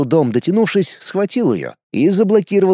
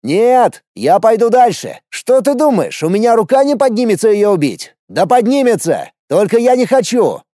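loud defiant shout; yelling at the sky; 7 semitones higher, 4 dB louder than usual. A narrator's reading. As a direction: hurl it up at the sky. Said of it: "продолжил орать в небо".

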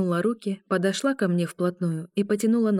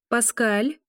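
shouting; 5 semitones higher than usual. A narrator's reading. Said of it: "крикнула ведьма".

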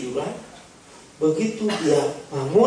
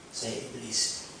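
low quiet devil voice; 6 semitones lower, 9 dB quieter, much slower than usual. Acted. Devil answers at the door.

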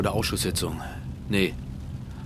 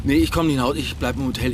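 firm refusal on phone; 4 semitones higher, 4 dB louder than usual. Acted.

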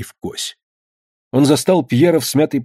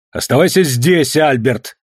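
raised voice, a bit higher; father snapping at his son to stay; shouted command; 3 semitones higher than usual. Acted. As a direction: call him back sharply. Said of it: "крикнул Верагут".

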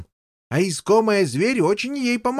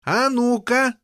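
shouting; 2 semitones higher, slower than usual. Acted. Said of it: "закричал он".

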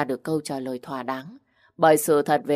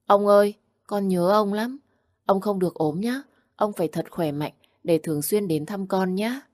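put-on whispering child; 4 semitones higher than usual. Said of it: "miệng thủ thỉ".

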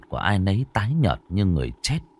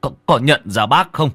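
halting plea rising to a high, loud cry; frightened stammering; 8 semitones higher, 4 dB louder than usual. A narrator's reading. Bác Tâm begs the dead girl to keep away, stammering. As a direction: stumble over the words in mounting panic. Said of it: "bác Tâm bây giờ cũng lắp bắp".

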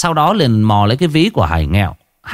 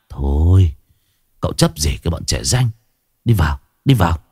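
sweet talk; 6 semitones lower than usual. Acted. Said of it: "ngọt nhạt".

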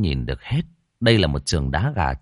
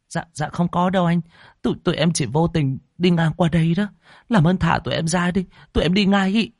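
put-on high, trembling girl's plea; frightened pleading; 8 semitones higher than usual. A narrator's reading. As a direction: beg them to let you go. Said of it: "Sương lộ rõ sự kinh hãi".

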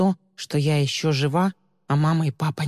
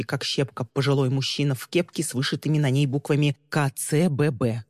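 plain reading voice

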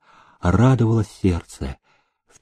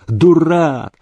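a sharp cutting higher "Дурак!"; curt retort; 7 semitones higher than usual. Acted. Housekeeper cutting off the groom sharply. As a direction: snap it off short. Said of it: "отрезала Юлька".

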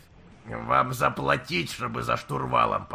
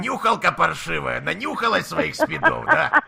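loud rude thug, much higher; russian prison slang; 6 semitones higher, 8 dB louder than usual. Acted. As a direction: bark it like a street thug. Keeps berating collector as junkie. (наглый блатной наезд)

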